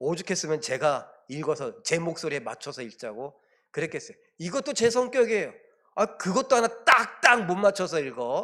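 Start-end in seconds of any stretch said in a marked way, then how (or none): 5.9-8.4 loud, high-pitched, irritated grumble. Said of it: "그게 또 못마땅한 게".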